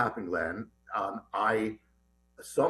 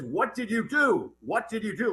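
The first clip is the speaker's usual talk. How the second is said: retold shouting; 6 semitones higher than usual. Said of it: "then he starts shouting".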